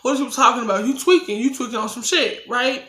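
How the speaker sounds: high, fast, incredulous comeback; retold outraged disbelief. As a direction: fire back like the accusation is absurd. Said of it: "And I'm like".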